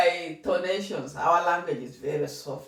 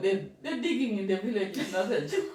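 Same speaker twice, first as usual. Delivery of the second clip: higher, laughing about the digging; amused high telling; 5 semitones higher than usual. Real, not acted. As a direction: joke about village work. Laughing about village chores.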